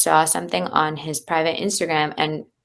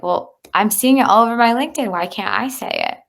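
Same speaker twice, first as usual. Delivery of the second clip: reliving the frustration, pitched up and quick; upset retort; 5 semitones higher than usual. Retold or imitated. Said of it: "I was so upset".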